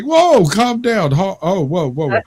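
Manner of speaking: alarmed calming down. Retold or imitated.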